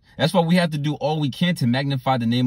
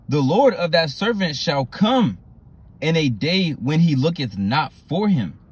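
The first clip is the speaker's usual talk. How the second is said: slow, weighty Bible reading; scripture reading; slower than usual. Acted. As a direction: read the verse slowly like a warning.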